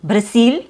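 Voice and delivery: "Brazil" as bruh-SEEL; S and tense vowel. Shown as a demonstration. Teacher showing the faulty consonant, S and tense vowel. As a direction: mispronounce "Brazil" with S and long EE. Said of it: "now sounds like an".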